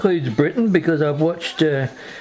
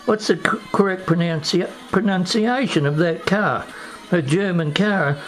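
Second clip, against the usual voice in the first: retold question; 4 semitones higher than usual. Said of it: "and I said".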